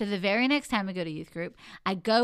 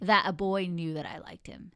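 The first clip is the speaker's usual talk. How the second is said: whisper. Real, not acted. Confiding the embarrassing detail.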